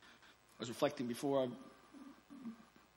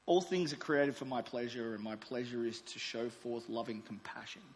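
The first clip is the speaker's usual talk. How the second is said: God's love letter; 3 semitones lower than usual. Acted. God writing to His precious child, gentle and tender. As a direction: read it like a father's tender letter. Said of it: "Might sound a bit like this".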